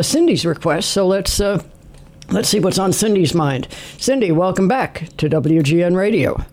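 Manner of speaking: normal talking voice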